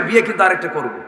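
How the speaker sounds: mock threat, starting high and loud; retold threat. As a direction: imitate a blustering husband, falling away at the end. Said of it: "হুমকি মারে".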